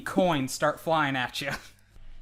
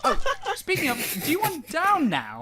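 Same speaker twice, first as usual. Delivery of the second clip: giant voice; 12 semitones higher than usual. Acted. Edward's high voice.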